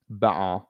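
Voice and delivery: "Baton" as mock-British banter, r dropped; British-style banter. Shown as a demonstration. Streamer showing how Brits say banter, "Baton" in UK accent. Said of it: "That's how they say banter".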